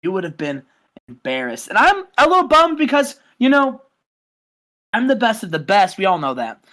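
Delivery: boastful heel promo, chest out; cocky wrestler promo. Acted. Podcast host cutting a mock heel promo as the champion.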